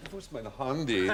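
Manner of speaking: comic German voice, played camp; camp German accent. Host doing handy on request, camp German accent. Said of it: "I like your sort of camp German accent".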